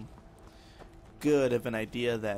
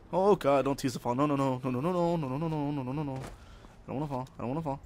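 rapid string of worried no's; alarmed, then shrinking to a plea; panicked muttering; faster than usual. Real, not acted. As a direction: talk yourself back from the edge. About to fall off cliff.

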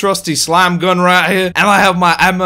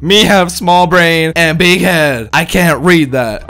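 dumb caveman talk; slower than usual. Pretend. Doctor overwhelmed by big word.

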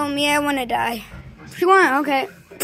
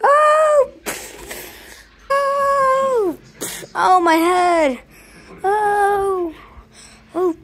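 high yelps, slow at the end; high pained cries; 4 semitones higher, much slower than usual. Pretend. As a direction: wail as if hurt. Character hurt on danger slide.

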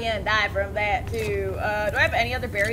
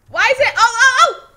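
high, loud laughing squeal; excited; 12 semitones higher, 12 dB louder than usual. Real, not acted. Struggling then succeeding climb.

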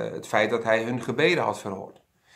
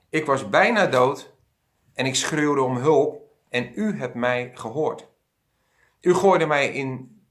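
raised, fervent Bible prayer read aloud; heartfelt prayer reading. Acted. Jona in the fish prays to God, fervent and pleading.

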